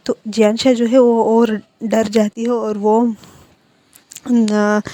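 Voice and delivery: ordinary delivery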